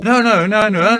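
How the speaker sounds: loud, high string of no's; emphatic no. Acted. Narrator cutting off his own retelling, loud no's. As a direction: stop yourself loudly and restart. Restarting the story, correcting himself.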